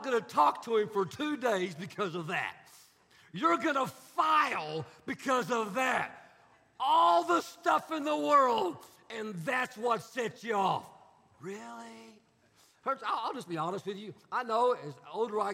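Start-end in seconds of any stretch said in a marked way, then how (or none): 3.3-10.9 louder, slow, pressing rebuke; exasperated rebuke. Acted. Pastor scolding a young wife, exasperated. 11.4-12.2 much softer, dry really; deadpan really. Retold or imitated. Pastor closing the rebuke, deadpan.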